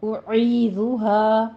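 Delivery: أُعِيذُهَا with rounded lips on the first u; أُعِيذُهَا slightly slowed; tajweed pronunciation. Shown as a demonstration. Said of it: "عین وسط حلق سے ادا ہوگا".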